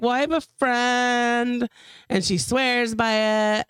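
slow, stretched words with long gaps; imitating his halting talk. Friend mimics him pitching the float tank, halting and drawn-out. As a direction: drag each phrase out, mocking his pauses. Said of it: "this is how he sounds, by the way".

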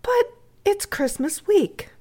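high, slow, grave little appeal; gently serious girl's protest, pitched high. Acted. Edith pleading with the housekeeper at Christmas, grave. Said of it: "said Edith gravely".

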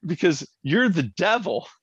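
mock indignant father. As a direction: ham up a self-righteous rant.

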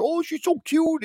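very high-pitched mock gushing; squeaky put-on baby-talk coo; mimicked cooing. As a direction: imitate people fawning over a puppy. Mimics people cooing over the puppy.

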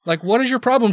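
retold irritation, punching the key words; a little mad. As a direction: argue back in annoyed disbelief. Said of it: "I got a little mad".

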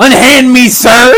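high hammed-up plea; fluttering cries for help. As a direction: cry out like a damsel in distress. Mock-pleading under a wrestler.

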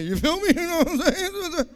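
playful hip slang, grinning; talking differently. Acted. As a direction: slip into club talk with a laugh. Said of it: "I'm even talking differently".

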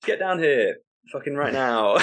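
mock-cross summons; exasperated order. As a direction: order them over, half laughing. Host orders reluctant guest to stage.

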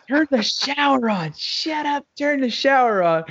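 high-pitched, flustered ordering; mock frantic demand. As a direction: act out a desperate command to the wife. Acted panicked orders to wife.

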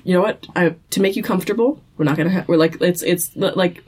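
quick, eager-to-please Gordon; mock helpful killer explaining a humane execution; over-accommodating. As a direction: reassure as if humoring a guest. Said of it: "being absolutely accommodating".

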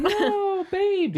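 very high cooing to a pet; cooing baby talk. Acted. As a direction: coo it at the little creature. Cooing at the cute creature.

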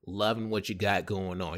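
a hint of the upbeat boss buttering him up; manager's voice. Manager praising the busboy, lightly imitated chummy tone. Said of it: "He talks just like that".

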